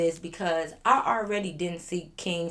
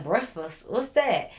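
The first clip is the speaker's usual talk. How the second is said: mocking critics; 3 semitones higher, 3 dB louder, slower than usual. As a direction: imitate puzzled commenters nitpicking a word. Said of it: "they be like".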